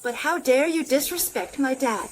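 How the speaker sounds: indignant, emphatic scolding. Acted. Daughter defending her dad, indignant. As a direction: confront them over an insult. Angry confrontation over insulted father.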